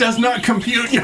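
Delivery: robot voice. Acted. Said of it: "Error, error".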